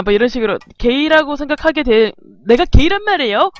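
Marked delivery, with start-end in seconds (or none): 2.5-3.5 mock indignant retort, pitched up; acted flare-up; angry protest. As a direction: protest as if falsely accused. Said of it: "하면서 화내는 걸로".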